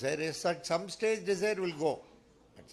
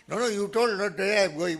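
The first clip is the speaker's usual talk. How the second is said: high, loud insisting; loud protest; 6 semitones higher, 9 dB louder than usual. Retold or imitated. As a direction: protest it at the top of your voice. Disciple protests loudly.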